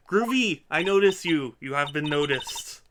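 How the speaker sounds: loud goofy artist voice; loud quirky voice. Acted. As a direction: ham up a groovy weirdo.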